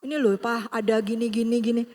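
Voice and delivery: soft, hesitant wheedling; hint at money softly, like a son angling for cash; coaxing father. Retold or imitated. Son softly hinting to his father for money, wheedling. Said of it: "merayu-rayu dikit lah ya".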